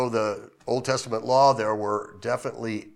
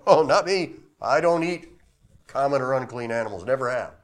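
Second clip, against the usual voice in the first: higher, louder casual brush-off; Peter refusing; 3 semitones higher, 5 dB louder than usual. Acted. Peter answering God's voice, mock refusal. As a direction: wave it off like a fussy eater. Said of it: "Three times".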